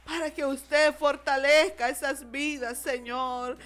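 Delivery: pleading, rolling intercessory prayer; fervent prayer. Real, not acted. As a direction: plead with God for grieving families.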